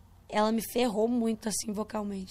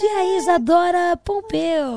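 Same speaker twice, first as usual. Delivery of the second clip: imitação aguda e lenta da entrevistadora; imitando a voz suave; 6 semitones higher, 8 dB louder, much slower than usual. Retold or imitated. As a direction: caricatura suave e mais alta da voz dela. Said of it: "nessa suavidade". (imitando a entrevistadora com voz suave, aguda e lenta)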